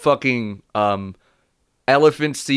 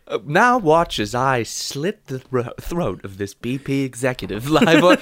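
lightly voiced documentary narrator; David Attenborough. Narrator announcing an on-air murder, Attenborough impression. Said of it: "have you seen what David Attenborough".

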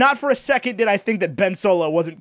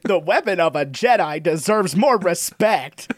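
mocking old Luke; 4 semitones lower than usual. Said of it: "He sounds like John Mulaney".

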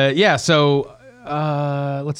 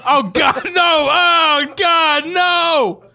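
loud, high laughing disgust; laughing shout; 4 dB louder, much slower than usual. Real, not acted. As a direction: shriek it through laughter. Reacting to a fart smell.

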